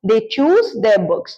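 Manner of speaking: very slow, every word separate; slow model sentence. Shown as a demonstration. Teacher repeating the sentence, very slow. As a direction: spell it out slowly for the class. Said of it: "यानी कि वो लोग अपनी किताबें खुद चुनते हैं".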